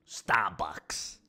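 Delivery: whispered New York aside. Pretend. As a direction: breathe the word out, no voice. Mock mobster aside.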